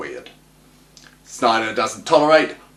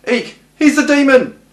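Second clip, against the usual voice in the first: high, loud hammed-up squeal of fright; mock shriek; 13 semitones higher, 7 dB louder than usual. Reviewer hams up the demon reveal, mock shrieking. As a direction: squeal it like a cartoon victim.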